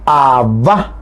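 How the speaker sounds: "abba" as ab-BA, final A stressed; "abba" stressed at the end, rising tune; stress on last syllable. Shown as a demonstration. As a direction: lift and lean on the last A of "abba". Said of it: "se acentúa en la última A".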